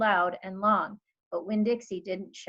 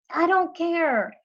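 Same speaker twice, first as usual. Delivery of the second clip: high, loud, slow defiant holler; 9 semitones higher, 7 dB louder, slower than usual. A narrator's reading. Girl hollering at her father from the yard. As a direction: yell it back in anguish. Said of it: "I hollered".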